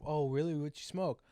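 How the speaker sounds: high, loud surprised question. Retold or imitated. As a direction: act caught off guard. People's surprised reply retold.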